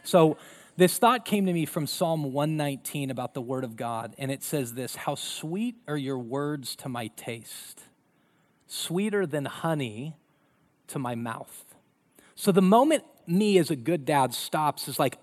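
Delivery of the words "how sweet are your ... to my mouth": slow and soft, savouring the verse; soft scripture reading. Real, not acted. Pastor reading the psalm aloud, slow and soft. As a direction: read it gently, letting sweet linger. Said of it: "reading scripture softly".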